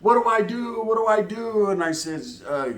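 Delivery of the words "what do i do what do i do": put-on higher-pitched frantic girlfriend voice; mock her helpless panic, without shouting; imitated panic. Girlfriend asking what to do after shooting, imitated panic. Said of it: "she's screaming, going crazy".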